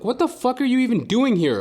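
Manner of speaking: high, loud outburst at strangers; shrill mock yell at joggers; exasperated yell. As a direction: bark it out in disbelief. Yelling at people in park.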